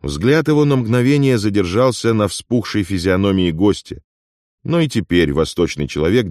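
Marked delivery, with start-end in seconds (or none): none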